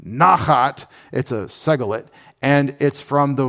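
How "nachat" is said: nachat as NAH-khat, stress up front; corrected nachat. Shown as a demonstration. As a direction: say nachat firmly with a full first syllable, NAH-khat. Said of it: "I even spelled it out for you".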